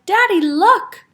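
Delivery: put-on eager child showing off; excited child. A narrator's reading. Taya showing her father the cart, excited.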